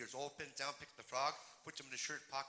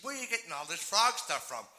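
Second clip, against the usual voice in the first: exasperated father; 3 semitones higher than usual. Acted. Exasperated father questions pestering daughter.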